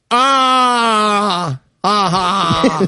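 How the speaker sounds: strained laugh like a sob; half-laugh, half-breakdown, mocked; imitated fake laugh. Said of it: "realistic version of that fake laugh".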